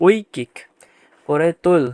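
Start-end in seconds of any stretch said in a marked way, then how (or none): 0.1-0.5 ঐকিক as "oi-kik", opening on a drawn-out oi; correct diphthong. Shown as a demonstration. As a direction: model ঐকিক slowly with a clear "oi" glide. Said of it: "এজন্যে এইভাবে হবে".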